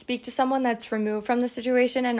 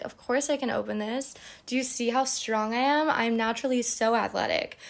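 exaggerated boasting. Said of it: "exaggerated humorous energy".

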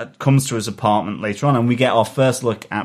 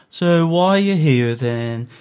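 mock border officer; 6 semitones higher than usual. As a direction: play the suspicious desk clerk. Border officer questioning new arrival.

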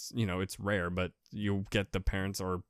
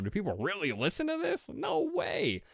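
incredulous self-talk, pitched way up; mock disbelief; 9 semitones higher than usual. Editor to himself on hearing his own recording, in high-pitched disbelief. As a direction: let the voice leap high in disbelief.

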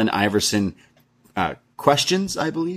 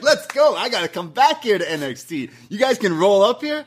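high-pitched, hyped-up wrestler voice; imitated excitement; 10 semitones higher than usual. R-Truth wanting back in NXT, imitated high excitement. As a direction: pitch it way up, raring to go.

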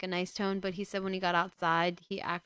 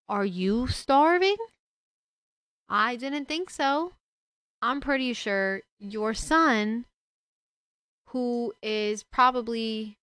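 louder, higher, slowed, indignant questions; angry rant; 3 semitones higher, 5 dB louder than usual. Real, not acted. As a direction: lay into him, word by word. Berating the absent father.

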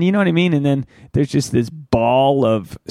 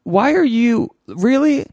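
high, slow, drawn-out whine; answering the girlfriend mid-vomit, high slow whine; exasperated mock whine; 11 semitones higher, slower than usual. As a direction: whine it back, stretched and pleading. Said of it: "And I was like".

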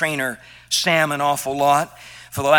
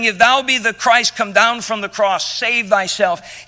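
mocking; 3 semitones higher, 4 dB louder than usual. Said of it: "cursing him and mocking him".

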